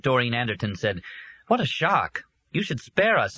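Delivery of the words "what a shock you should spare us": playful startled protest; shocked exclamation. Acted. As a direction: react to the awful noise. Doreen startled by the racket.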